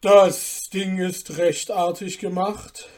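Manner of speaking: condescending praise, drawn out; a sly guest belittling the dish; mocking guest. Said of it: "lächelte dabei höhnisch".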